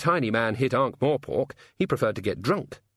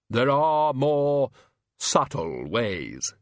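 Death voice; 3 semitones higher, much slower than usual. A narrator's reading. Death speaking.

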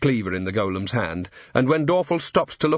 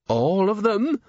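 higher, dismayed question; shocked; 9 semitones higher, slower than usual. A narrator's reading. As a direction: gasp it out. Shocked butcher.

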